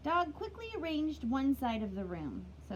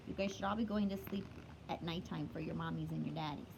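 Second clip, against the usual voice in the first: playful whisper; 6 semitones lower, 5 dB quieter, faster than usual. Real, not acted. Teacher whispering a bedtime reminder to kids, hushed.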